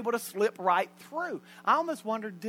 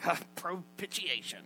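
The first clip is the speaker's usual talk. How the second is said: tossed off casually; 4 semitones lower, 8 dB quieter than usual. Pretend. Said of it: "I just spit it out".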